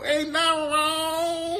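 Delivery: put-on very high, stretched-out Black-accent parody; sing-song it in a put-on Black accent; mock Black accent. Host teases Stella over the speech, exaggerated Black accent. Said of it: "y'all be switching it up".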